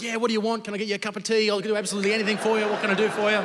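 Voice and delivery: mock eager boyfriend offering everything; eager to please. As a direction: gush like a smitten teenager ready to do anything. Eager reply to girlfriend.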